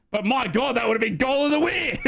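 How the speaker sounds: high-pitched commentator's amazement breaking into laughter; excited marvelling. Real, not acted. Live commentary, marvelling at chance.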